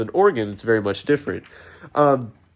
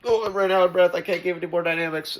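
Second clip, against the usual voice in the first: winded singer; 6 semitones higher, faster than usual. Retold or imitated. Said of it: "It's like".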